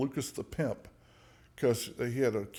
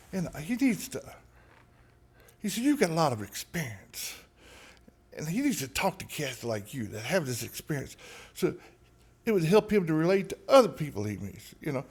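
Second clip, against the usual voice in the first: higher, smooth-talking New Orleans patois; 4 semitones higher than usual. Retold or imitated. Lucas talking him into helping a new guy, New Orleans patois. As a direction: sell it like a persuasive New Orleans hustler. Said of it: "this New Orleans ghetto patois in his accent".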